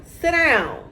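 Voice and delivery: ordering someone at home to stop, a loud sharp real command. Real, not acted. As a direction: make them stop right now. Commanding someone mid-recording.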